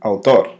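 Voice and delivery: "Autor" said the Spanish way, ow-TOR; Spanish word. Shown as a demonstration. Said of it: "What is it in Spanish?".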